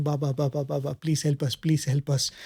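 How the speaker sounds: softly voiced, low-key pleading retold; silent prayer. Passenger prays inwardly to Swami for help, soft retold prayer. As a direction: quote a hushed inward prayer, gently understated. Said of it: "she is praying to Swami".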